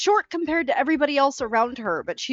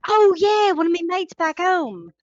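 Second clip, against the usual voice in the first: put-on Australian accent; 6 semitones higher, 4 dB louder than usual. Drow character Jolene, Australian voice.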